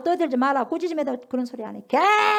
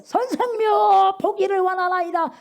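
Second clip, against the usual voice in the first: pleading beggar; 8 semitones higher, 5 dB louder than usual. Acted. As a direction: beg the master to see. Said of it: "맹인 이르되".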